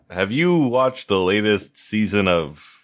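slow imitation of a bored ad reader, lifting at the end; mock someone dutifully reading ad copy; unenthused ad read. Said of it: "Rob never sounds enthused reading ad copy".

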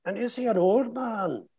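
put-on high Northern Irish lilt as an old man. Shown as a demonstration. Actor sketching a book character, Northern Irish accent. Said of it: "this character is from Northern Ireland".

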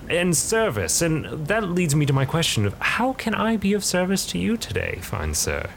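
oily, courteous merchant voice; a salesman's sweet offer; smooth bargainer. Acted.

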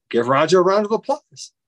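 retold facilitator rallying the group; calling out. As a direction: call for applause, pitch climbing. Facilitator calling on the room to applaud.

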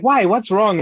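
high, mildly worried mock boyfriend; imitating the boyfriend. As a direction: pitch up, a light imitation of a puzzled boyfriend. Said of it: "And he's like".

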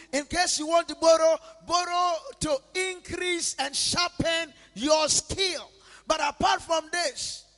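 building, loud preaching. Real, not acted. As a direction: drive it home to the church. Building sermon climax.

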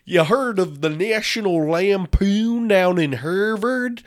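badly faked broad Boston accent. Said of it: "that's not a good Boston accent".

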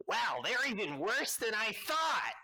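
high, gleeful taunting voice; mocking villain. Villain on the hill mocking the heroes, high gleeful taunt. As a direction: jeer down at the heroes. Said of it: "you hear".

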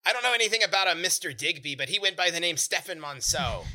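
lightly voiced gnome, slightly high; quick denial with a touch of gnome; mildly worked-up little gnome; indignant gnome. Plays the gnome owner.

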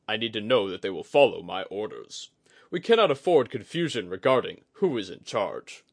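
loud, firm, authoritative warrior; stern commander voice. Acted. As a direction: lay down the law. Itsuji asserts command.

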